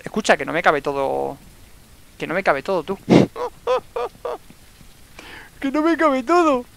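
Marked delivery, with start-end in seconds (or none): 3.0-4.4 squeaky high giggle; high laugh. Real, not acted. Se ríe del juego. 5.6-6.6 higher, laughing protest; laughing complaint. Real, not acted. Se queja riendo del espacio.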